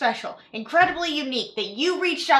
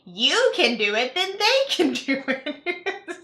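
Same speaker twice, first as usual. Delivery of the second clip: laughing mock pitch. Mocking MLM pitch continues.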